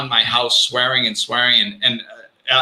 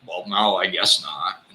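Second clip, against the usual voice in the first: deflated; 6 semitones lower, 5 dB quieter than usual. Retold or imitated. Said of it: "And I was like".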